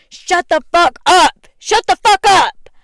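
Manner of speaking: high, loud furious shout; retold angry yell. Friend yelling at girlfriend for teasing him, full angry shout. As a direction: yell it like he just snapped at you. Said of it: "he turns around and he says".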